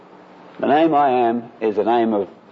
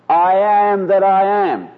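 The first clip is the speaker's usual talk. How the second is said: higher, louder, an alien voice; other voice; 6 semitones higher, 3 dB louder than usual. Retold or imitated. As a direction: imitate the demon's claim. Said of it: "with a voice that is not that of Brian Scott".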